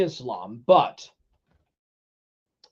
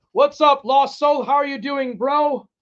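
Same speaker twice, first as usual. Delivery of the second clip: high, monotone-like excited hello; hyped, high-voiced hail; high-pitched greeting; 7 semitones higher, 3 dB louder than usual. Real, not acted. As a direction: greet them still pitched up from the shout. Excited greeting after slogan.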